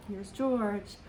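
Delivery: plain reading voice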